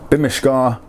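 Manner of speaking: "bimishka" with all three vowels sounded; full-vowel form. Shown as a demonstration. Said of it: "both full vowel forms".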